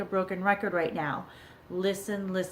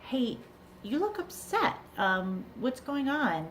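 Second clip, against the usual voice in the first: concerned parent; 5 semitones higher than usual. Acted. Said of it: "our response may be".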